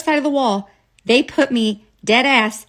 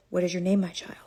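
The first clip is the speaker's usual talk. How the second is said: gentle Jesus; 3 semitones lower, 8 dB quieter, faster than usual. Retold or imitated. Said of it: "Jesus says".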